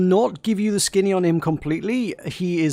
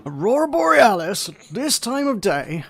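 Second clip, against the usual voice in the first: Simpsons quote; 4 semitones higher than usual. Retold or imitated. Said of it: "the Simpsons line".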